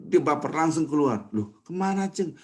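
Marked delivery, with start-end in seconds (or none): 1.3-2.4 mock call after. Friend calls after leaving man.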